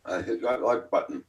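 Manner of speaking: chewing sticky toffee. Real, not acted. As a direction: mouth full of toffee. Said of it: "I'm eating some toffee".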